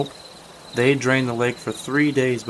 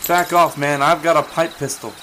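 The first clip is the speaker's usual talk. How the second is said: defiant shout; 4 semitones higher, 5 dB louder than usual. Acted. Boy threatens intruder.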